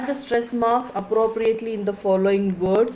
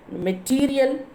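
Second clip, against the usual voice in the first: material with a higher, stressed TERIAL; 4 semitones higher than usual. Shown as a demonstration. Teacher showing students the stress, material with TERIAL lifted. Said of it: "material is the stressing".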